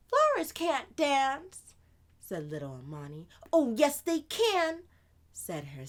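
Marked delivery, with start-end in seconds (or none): 0.1-1.7 put-on high little girl, sadly. Amani grieving her dead flowers, high childlike voice. 3.5-4.8 higher, louder, quick big-sister voice; older sister voice. Acted. Sister answering Amani, lively and louder.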